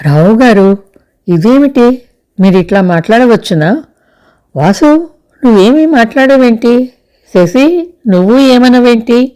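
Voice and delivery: panicking, turning from one person to the next; flustered panic. A narrator's reading. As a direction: Chandrika in a flustered panic, questioning everyone. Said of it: "గాబరాగా అంది చంద్రిక".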